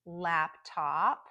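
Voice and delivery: laptop with strong LAP and clear top; primary stress on lap in laptop, secondary on top; careful list-reading of laptop; compound noun stress. Shown as a demonstration. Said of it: "extra stress on the first word".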